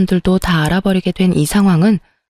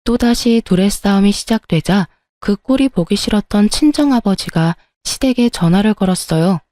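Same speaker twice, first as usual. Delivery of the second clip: ordinary delivery, nothing marked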